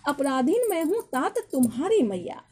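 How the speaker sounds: measured, lightly declaimed verse; poem recitation. Acted. Teacher reading Kaikeyi's verse to students, lightly declaimed. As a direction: recite the couplet in set phrases, pitch slightly lifted.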